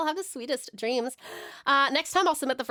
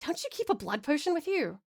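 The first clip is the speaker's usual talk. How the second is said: put-on amateur Scottish accent; 2 semitones higher, 4 dB quieter than usual. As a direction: question it in a rough Scottish accent. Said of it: "butchered it with my terrible accent".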